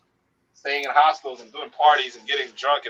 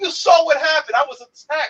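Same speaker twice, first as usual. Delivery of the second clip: mock innocent; 12 semitones higher, 4 dB louder than usual. His own reply, pitched up, laughing.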